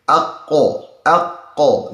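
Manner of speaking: aqqa with the q held back tight; restrained qaf. Shown as a demonstration. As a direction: stop the voice hard on the q of aqqa. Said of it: "the voice of such a letter is being restrained".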